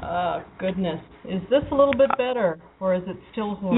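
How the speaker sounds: bad Skype line, metallic and hollow; tin can sound. Real, not acted. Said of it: "you sound like you're in a tin can".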